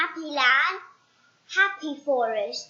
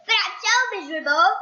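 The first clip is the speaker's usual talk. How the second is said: fast, high, louder whine; whiny complaint; 5 semitones higher, 6 dB louder, much faster than usual. Acted. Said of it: "he complained".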